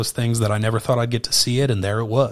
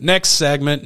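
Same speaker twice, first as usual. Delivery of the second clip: next segment pushed louder; louder call; 4 semitones higher, 5 dB louder, slower than usual. Real, not acted. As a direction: call it out like a host. Repeating the segment cue.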